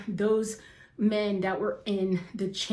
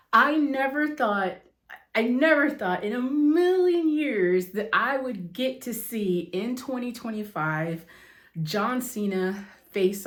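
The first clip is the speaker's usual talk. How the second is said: overjoyed rush of disbelief; excited outburst; 3 semitones higher, 3 dB louder than usual. Real, not acted. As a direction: let it spill out like a thrilled fan. Overwhelmed fan gushing about match.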